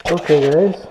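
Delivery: stuffy nose from a cold; sniffly, blocked nose voice; sniffling. Real, not acted. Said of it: "sorry about my sniffling".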